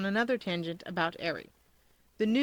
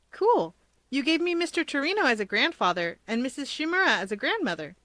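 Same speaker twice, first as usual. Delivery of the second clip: excited; 5 semitones higher than usual. Acted. Izuku excited about family tree.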